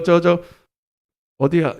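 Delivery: normal talking voice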